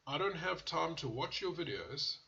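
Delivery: rude demand. Retold or imitated. Vlogger mimics a rude viewer ordering him around, mock-bossy. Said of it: "just like that".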